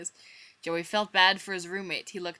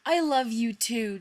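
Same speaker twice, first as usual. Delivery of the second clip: softly; 5 semitones higher, 6 dB louder than usual. Acted. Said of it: "said softly".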